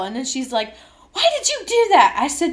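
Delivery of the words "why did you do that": high, loud, fast demand; mock angry scolding. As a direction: snap at her like a scolding boss. Coach scolds her.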